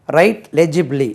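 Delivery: slow, loud, word by word; loud, careful teacher model; slow model phrase. Shown as a demonstration. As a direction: say it slowly for the class. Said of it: "W R I டி E".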